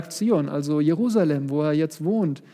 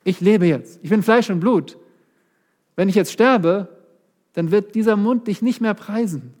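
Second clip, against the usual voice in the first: urgent plea; 5 semitones higher, 4 dB louder than usual. Acted. David pleads with God.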